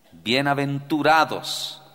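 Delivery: slow, loud solemn words; Jesus answering. Acted. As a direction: pronounce it slowly as a rebuke. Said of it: "Y Jesús le dijo".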